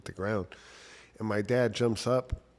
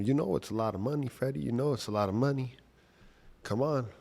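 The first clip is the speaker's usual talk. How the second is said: taunting trash talk; 5 semitones higher than usual. Retold or imitated. The guy taunts dad with the cash, mock-taunting. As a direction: needle him, lightly voiced. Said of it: "the guy starts talking trash".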